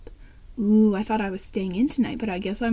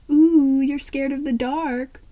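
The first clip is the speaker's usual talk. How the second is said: taunting; 2 semitones higher, 5 dB louder, slower than usual. Acted. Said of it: "Lynn taunts".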